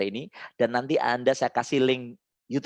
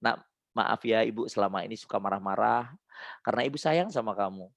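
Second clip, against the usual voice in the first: demo tender apology; 4 semitones lower, 5 dB quieter than usual. Shown as a demonstration. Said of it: "Anda coba deh bilang ke anak Anda".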